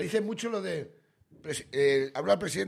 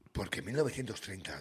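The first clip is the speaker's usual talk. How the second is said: much lower, softer and grave; mock pundit; 9 semitones lower, 6 dB quieter than usual. Mocking a talk-show guest about to give a lecture, low and grave. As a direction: drop into a solemn history-lecture tone. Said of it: "De repente dicen".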